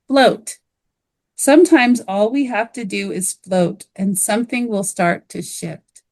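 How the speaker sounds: measured reading with reflective pauses; unhurried guided-journal read-aloud; reading a guided prompt. Acted. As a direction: read it as a gentle guided reflection, pausing after each question.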